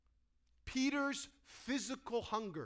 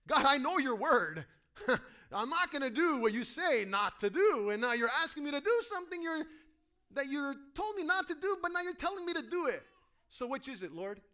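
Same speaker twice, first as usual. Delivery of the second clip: exasperated Peter; 5 semitones higher, 3 dB louder than usual. Acted. Peter arguing back to God.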